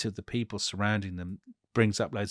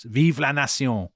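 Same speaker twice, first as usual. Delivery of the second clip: raised, higher mock chant; crowd shout; 5 semitones higher, 5 dB louder than usual. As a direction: imitate a shouting crowd, not full force. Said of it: "people start to shout".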